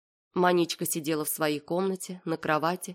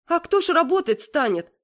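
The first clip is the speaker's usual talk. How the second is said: higher, louder astonished mother; astonished exclaim; 10 semitones higher, 6 dB louder than usual. A narrator's reading. Mother exclaims in astonishment at her daughter's plan, much higher. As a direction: cry out in amazement. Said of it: "воскликнула в изумлении мама".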